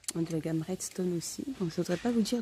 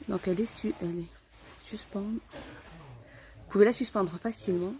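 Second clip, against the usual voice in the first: muffled behind a mask; through a face mask. Real, not acted. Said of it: "j'ai du mal à parler aujourd'hui, bah, avec le masque". (voix étouffée par le masque)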